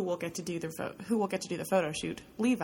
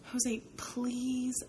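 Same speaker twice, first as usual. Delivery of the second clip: begging; 5 semitones higher, 3 dB quieter than usual. Acted. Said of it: "I beg".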